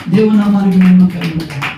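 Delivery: loud congregational praise call; praise acclamation. Real, not acted. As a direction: proclaim it over the applause. Preacher leading praise with applause. (బిగ్గరగా స్తుతి ప్రకటన)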